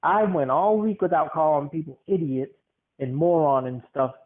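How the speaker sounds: exasperated venting with swooping emphasis; retold frustration. Worker venting into a muted phone, mildly frustrated. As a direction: stress the grievances in rising and falling swoops. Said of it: "I vented out my frustration today".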